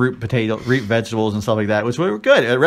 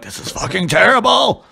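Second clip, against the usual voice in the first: much higher, louder mock horror with laughter; inner disgusted rant; 11 semitones higher, 4 dB louder than usual. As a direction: voice the panicked thoughts behind a polite smile. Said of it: "in my mind, I'm like".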